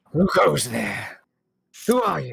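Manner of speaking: rough, raspy, growly creature voice. Game master voicing an unseen creature in a tree stump: raspy, growly voice. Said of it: "a kind of raspy, growly voice back. It says".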